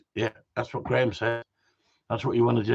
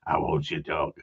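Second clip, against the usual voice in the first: unvoiced, breathy whisper; hushed whisper off mic; 9 semitones lower, 5 dB quieter than usual. Real, not acted. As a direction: whisper the question aside. Aside while the chat goes on.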